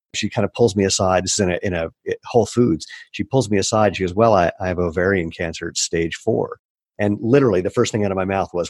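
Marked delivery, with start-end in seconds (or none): none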